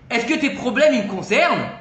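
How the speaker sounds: une pointe d'agacement, un peu plus fort; réplique sèche mais retenue; agacé. Retold or imitated. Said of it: "il s'énerve en lui disant". (le vieil homme rabroue le rav, légèrement agacé)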